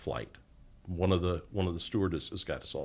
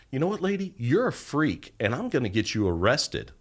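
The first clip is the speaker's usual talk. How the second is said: higher, louder retold outburst, imitating an annoyed flight attendant; mock angry retort; 4 semitones higher, 4 dB louder than usual. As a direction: throw it at her like a fed-up stewardess. Flight attendant snaps at passenger.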